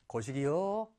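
low, soft dialect murmur of love; mock love confession. Shown as a demonstration. Teacher demos Jeolla dialect for I love you, mock tender. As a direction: say it softly, as a played confession. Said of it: "그래서 사랑해".

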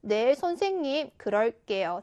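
subdued polite answer, falling away at the end; humble acceptance. Shown as a demonstration. Seulbi answering the homeroom teacher's advice, humble and accepting. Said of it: "이런 것이 어울리겠지요".

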